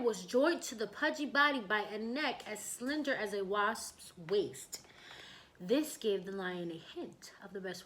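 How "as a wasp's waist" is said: slow unvoiced whisper. A narrator's reading. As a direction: draw it out in a whisper.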